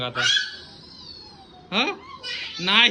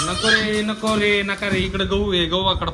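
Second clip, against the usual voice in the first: higher, louder repeated warning; telling off; 5 semitones higher, 4 dB louder than usual. Real, not acted. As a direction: stop them before water spreads. Telling kids off. (मुलांना मोठ्याने रोखणे)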